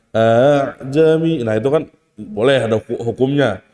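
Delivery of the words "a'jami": A'JAMI with a slow, softened second hamza; tashil demonstration. Shown as a demonstration. Teacher showing students what tashil is, A'JAMI drawn out slowly. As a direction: stretch the opening of A'JAMI, easing into it. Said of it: "Tashil itu kayak misalkan".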